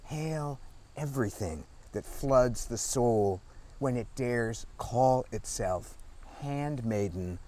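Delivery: measured poetry recital, phrase by phrase; deliberate literary reading with falling line ends; poem reading. Acted. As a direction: read it as a poem, pausing between images. Reads own poem aloud.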